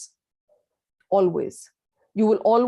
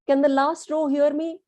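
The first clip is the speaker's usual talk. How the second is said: calling out; 5 semitones higher than usual. Shown as a demonstration. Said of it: "you're screaming".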